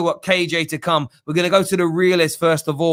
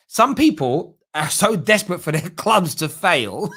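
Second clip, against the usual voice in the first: laughing; 5 semitones higher than usual. Real, not acted. Host laughing at rival fans.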